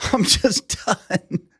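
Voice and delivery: high, slow mock exasperation; fed up. Batter quitting after being hit, mock fed-up groan. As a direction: drag it out, imitating someone fed up. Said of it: "He said".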